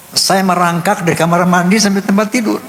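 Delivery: high, choked-up telling; tearful. Real, not acted. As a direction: recount it on the edge of tears, pitched high. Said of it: "saya nangis gerung-gerungan". (bercerita dengan suara tinggi menahan tangis)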